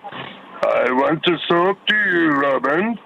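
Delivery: Star Wars villain voice. Acted. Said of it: "It's a character out of Star Wars".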